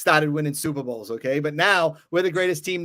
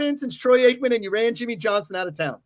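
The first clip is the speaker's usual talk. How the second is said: yelling; 5 semitones higher than usual. Real, not acted. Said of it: "Sorry, sorry, I yelled again".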